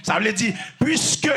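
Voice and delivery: full-force sermon delivery, punching repeated phrases; forceful preaching. Real, not acted. Preacher warning listeners about idols, forceful preaching. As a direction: preach it with driving insistence.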